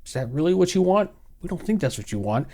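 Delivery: soft, smug corporate teasing; mock YouTube voice. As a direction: toy with the viewer like a smug company. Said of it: "They said".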